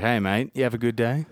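"day" lifted at the end like a question; upwards inflection. Shown as a demonstration. Demonstrating the Australian accent to a co-host, upward inflection on "day". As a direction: turn "good day" upward at the finish. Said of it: "everything has an upwards inflection".

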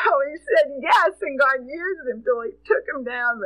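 teary, voice catching; crying a little at the memory; choked up. Real, not acted. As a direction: fight back tears. Moved to tears remembering him.

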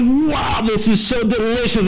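high, thrilled little dog voice; delighted dog. Acted. Pastor voicing a bulldog delighted by kibble, high and thrilled. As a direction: gush over the kibble like a happy pup.

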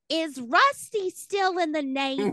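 put-on high confused old lady; dotty aunt asking; Aunt Bethany. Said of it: "walk around to random men ... and go".

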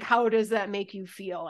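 sincere, unaffected question; truly meant. Shown as a demonstration. Podcaster dropping the therapist act to truly ask, sincere. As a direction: ask it in earnest, in your own voice. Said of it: "but truly".

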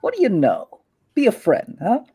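a hint of a swaggering street boss; smug gang boss. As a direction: Kalen sizing up a rival in his turf. Kalen presses Tower.

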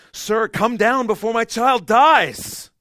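loud, high, slow anguished plea; desperate cry. Pretend. Nobleman crying out to Jesus to save his child.

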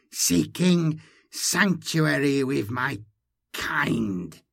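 slow, strained alien hybrid voice; inhuman hiss. Acted. Hybrid seeking refuge with her kind, slow inhuman hiss. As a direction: drag the words out through a distorted larynx. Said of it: "Issuing from a distorted larynx".

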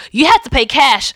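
lightly put-on New Jersey accent; a hint of a New Jersey bus driver. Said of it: "my awful New Jersey accent".

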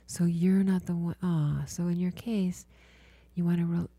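healer guiding a client through body listening, hushed and soothing; guided meditation. Acted.

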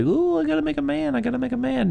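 gleeful mocking squeal; mocking mad scientist. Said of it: "you were like".

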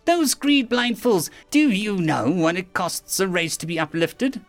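high-pitched alien tirade; incensed villain's outburst; furious. A narrator's reading. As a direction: rant with bitter outrage. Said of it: "suddenly sounding furious".

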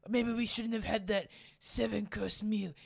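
a hint of the hapless crook; Simpsons thief. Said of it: "there's a couple of thieves, and he says".

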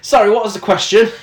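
lightly attempted American accent; a touch of put-on American. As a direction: toss it off quickly in a tentative American accent. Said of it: "in an American accent".

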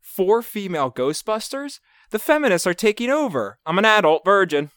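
high, loud hammed-up voice; quoted Vine character. Reciting a favorite Vine for cohosts, hammed-up character voice. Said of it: "one of my favorites is".

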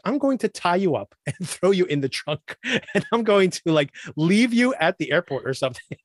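mock menace breaking into laughs; laughing mock threat. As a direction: play the villain line but laugh through it. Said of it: "he could just be like".

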